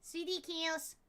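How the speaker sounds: reading Sweetie aloud to test its sound; trying out the pronunciation. Shown as a demonstration. Reading the Latin word aloud to test it. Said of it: "So I think it's Okidi".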